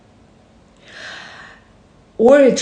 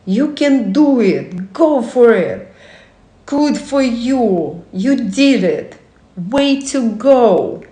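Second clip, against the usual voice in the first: cheerleader. Acted. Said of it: "their own personal cheerleader".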